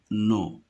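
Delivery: no, blended from N and O; détache la syllabe no; sounding out the syllable. Shown as a demonstration. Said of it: "N avec O". (syllabe no articulée)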